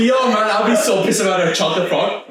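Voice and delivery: put-on quick British accent. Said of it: "your British accent is on point".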